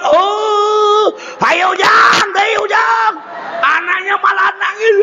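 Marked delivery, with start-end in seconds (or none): 0.0-3.1 coaxing parent. Retold or imitated. Parents laughing at fallen baby.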